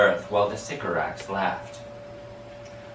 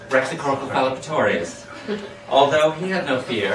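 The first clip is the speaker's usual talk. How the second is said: laughing; 2 semitones higher than usual. Real, not acted.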